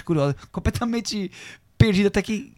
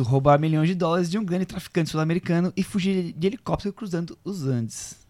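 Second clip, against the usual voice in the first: hoarse voice fading to nothing; voice giving out. Real, not acted. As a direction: voice cracking and giving out. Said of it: "sua voz tá falhando mesmo".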